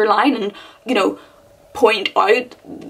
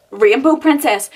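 mocking disbelief; 4 semitones higher than usual. Shown as a demonstration. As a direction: throw Rainbow Princess back, baffled. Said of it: "What am I reading?".

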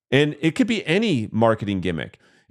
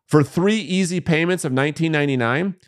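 pushy infomercial pitch, hyped up; hard sell ad. Retold or imitated. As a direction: sell it like a late-night TV ad. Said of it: "And the marketer is".

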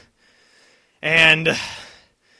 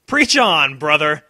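enthusiastic cheer; 6 dB louder, slower than usual. Real, not acted. Cheering a character.

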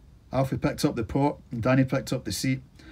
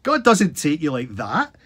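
louder, higher and slow, insisting; slow bellow; 5 semitones higher, 5 dB louder, slower than usual. A narrator's reading. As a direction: hammer it home slowly. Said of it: "Sid bellowed".

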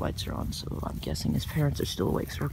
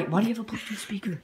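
whispering; 5 semitones higher than usual. Real, not acted. Alarmed whisper about speaker.

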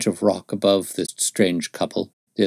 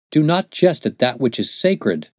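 raised high and firm, a stern warning; stern rebuke; 6 semitones higher, 3 dB louder than usual. A narrator's reading. Young Mormon sternly rebukes the wanderer, raised and stern. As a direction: scold him for mocking the sacred. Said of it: "said the other sternly".

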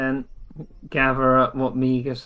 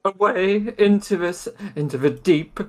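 raised, theatrical delivery, dragging at the end; dramatic declaration; 6 semitones higher, 3 dB louder than usual. Acted. Son telling mother where he goes, dramatic declaration. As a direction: announce it with grand drama.

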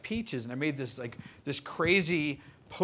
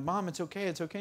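soothing mom; 3 semitones higher, 3 dB quieter than usual. Retold or imitated. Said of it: "I'm just trying to calm her down".

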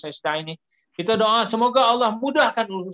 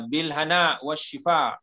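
bil hana wa shifa, each word slow and clear; slow teaching demo; 2 semitones lower, slower than usual. Shown as a demonstration. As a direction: sound out the Arabic blessing slowly. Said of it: "kita sebut kan". (sebut perlahan-lahan, jelas setiap perkataan)

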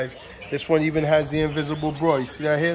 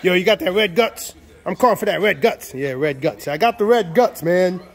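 imitating southern buyer. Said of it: "That's how they say it".

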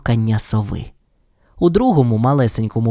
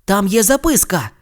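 sudden exclamation; 7 semitones higher than usual. Acted. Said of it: "раптом вигукнув Рон".

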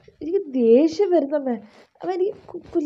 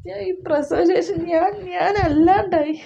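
anguished self-questioning; 4 semitones higher than usual. Acted. Daughter despairs alone after quarrel.

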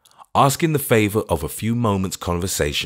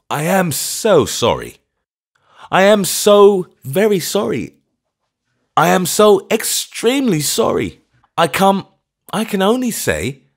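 put-on high, loud, fluttering apology from a nervous old clergyman; timid old vicar, high and loud; flustered old vicar; 13 semitones higher, 6 dB louder than usual. A narrator's reading. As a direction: pile on the sorries, rising higher.

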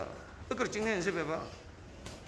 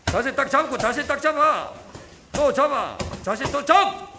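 barking gym coach; 3 semitones higher, 5 dB louder, slower than usual. Real, not acted. Coach drilling son in sparring.

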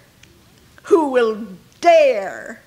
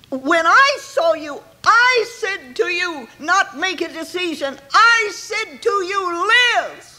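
commanding; 5 semitones higher than usual. Acted. Preacher voices God's command.

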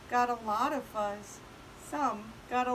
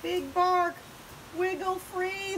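high call up to the sky; shouting; 7 semitones higher than usual. A narrator's reading. Prairie dogs calling up to Big Bark, shouting. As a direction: shout urgent help to someone overhead. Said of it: "the prairie dog shouted".

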